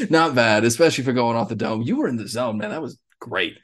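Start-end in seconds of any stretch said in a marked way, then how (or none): 0.1-0.6 chuckling through the words; laughing. Real, not acted. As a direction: laugh as you say it. Laughing reaction.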